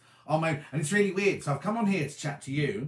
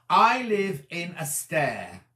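slow puzzled reading; 5 dB louder, much slower than usual. Shown as a demonstration. Reading a puzzling viewer comment to the camera, slow and deliberate. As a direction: slowly sound out I live in a stair, stressing I. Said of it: "Wonder what that's meant to say".

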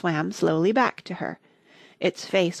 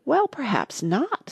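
soothing; 7 semitones higher, slower than usual. A narrator's reading. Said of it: "in a soothing tone".

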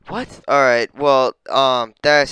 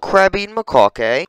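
high, loud British lilt; mock British accent; 7 semitones higher, 4 dB louder than usual. Mocking the monkey's name, mock British accent. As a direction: say it in cheeky British, rising at the end. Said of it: "What the fuck is a British name?".

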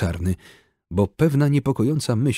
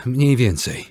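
strangled hoarse reply, raised and louder; choked, rasping voice; 4 semitones higher, 4 dB louder than usual. A narrator's reading. Injured Czarny answers Georgi in a choked rasp. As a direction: force it out through a sore throat. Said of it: "zduszonym, charkotliwym głosem".

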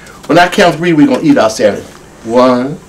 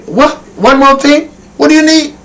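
high puppet chat; 11 semitones higher, 4 dB louder than usual. Acted. Asks the hen puppet.

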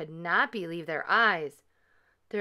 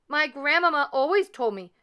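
higher, pleading little voice; pitched-up, anxious excuse; nervous youngster; 6 semitones higher, 5 dB louder than usual. A narrator's reading. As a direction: explain yourself as a scolded youngster. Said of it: "Leola stammered".

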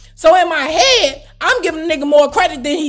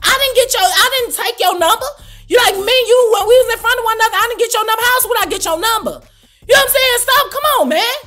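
exasperated rant; 9 semitones higher, 3 dB louder, faster than usual. Retold or imitated. Angry retort continuing on phone.

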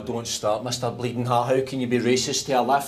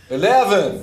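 higher, louder fake American accent; American accent attempt; 8 semitones higher, 6 dB louder than usual. Retrying for the voice lift, loud bad American accent. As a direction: push a botched American accent hard. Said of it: "You need to try an American accent".

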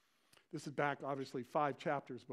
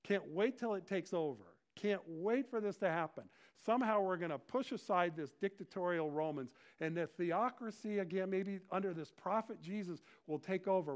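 eager, raised voice with punched words; excited crowd; 4 semitones higher, 3 dB louder than usual. Acted. People welcoming the preacher of peace, excited. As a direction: voice a crowd that can't wait. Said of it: "people are excited and they're like".

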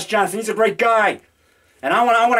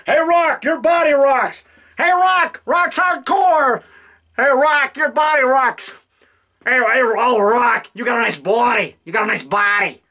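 higher, hammed-up drunk fan calling out; mock fan voice; 3 semitones higher, slower than usual. Filmmaker voicing an adoring fan in his shower scene, mock gushing. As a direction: ham up a besotted fan gushing over the body.

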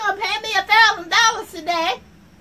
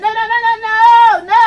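loud laughing no; 7 dB louder than usual. Acted. Laughing protest to audience.

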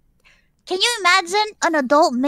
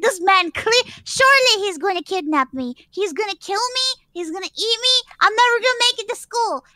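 retold panic; 5 semitones higher than usual. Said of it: "I got really scared".

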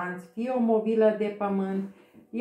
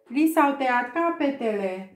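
shout; 4 semitones higher than usual. Acted. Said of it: "strigă regina".

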